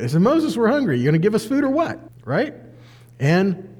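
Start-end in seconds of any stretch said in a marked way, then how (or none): 0.2-2.0 higher, pushy Moses, we're hungry; a grumbling crowd pressing Moses for food; demanding complaint. Shown as a demonstration. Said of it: "that's a nice way of putting it".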